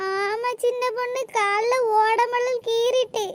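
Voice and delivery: slow, drawn-out feigned hurt; put-on play-acting. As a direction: stretch out the excuse like an act. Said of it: "நல்ல நாடகம் நடிப்பாவ". (நாடகமாக இழுத்துச் சொல்லும் குரல்)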